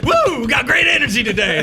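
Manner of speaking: high, loud, laughing party-dude whoop; hammed-up McConaughey. McConaughey barging into Nolan's trailer, high laughing whoop. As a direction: burst in like a stoner with bongos. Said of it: "It's like".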